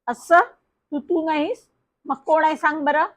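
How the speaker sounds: sly, mocking. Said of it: "ती दुष्टपणाने हसली".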